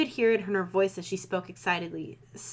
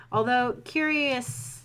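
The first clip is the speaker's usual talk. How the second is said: slow reading; 4 semitones higher, much slower than usual. Shown as a demonstration. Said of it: "that's not how that word works".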